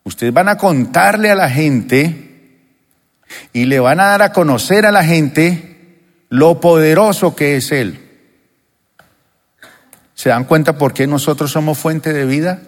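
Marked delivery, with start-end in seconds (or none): none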